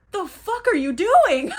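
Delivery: mock furious, loud and high, half laughing; laughing while imitating an angry yell; retold angry outburst. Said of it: "she gets so mad at him".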